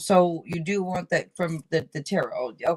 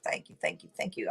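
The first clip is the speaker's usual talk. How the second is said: whispered thanks; 8 semitones lower, 8 dB quieter than usual. Shown as a demonstration. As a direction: whisper "Thank you, thank you, thank you" softly, like a private prayer. Voicing grateful affirmation, whispered repeat.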